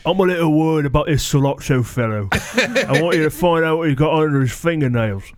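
mob boss giving orders in British dialect; British mob accent. Acted. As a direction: send out the henchman, British gangster style. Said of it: "let's try the British mob dialect".

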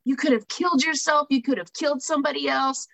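half-hearted retold scolding yell. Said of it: "he's yelling at me".

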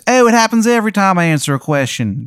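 high, squeaky falsetto; Steve's voice. Acted. GM voicing Steve explaining his rebirth, high falsetto. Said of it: "He goes".

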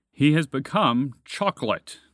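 slow, loud dragon pronouncement. A narrator's reading. Dragon tells spaceship of creature's fate, slow and loud. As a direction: declare it slowly and forcefully. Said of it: "the dragon said".

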